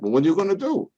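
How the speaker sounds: high, loud shrug of a Josephine voice; Italian parishioner. Retold or imitated. Sick parishioner shrugging off the priest's question, loud and high. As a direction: toss it off like a resigned old parishioner.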